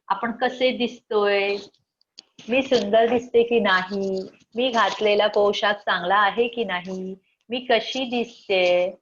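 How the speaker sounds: slow, preening self-admiring voice; girl at the mirror. Retold or imitated. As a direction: play a girl checking her looks.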